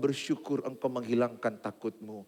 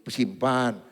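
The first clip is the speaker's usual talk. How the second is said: usual speaking voice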